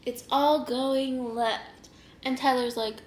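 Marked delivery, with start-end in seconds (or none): 0.0-1.9 put-on slow, swaying drunk delivery; imitating dizzy drunkenness. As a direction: drag the words out as if swaying. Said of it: "I'm, like, swaying".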